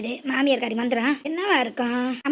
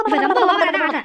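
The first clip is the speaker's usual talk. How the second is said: angry outburst; 5 dB louder than usual. Acted.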